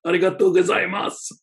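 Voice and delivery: mock formal correction. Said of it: "I'm like".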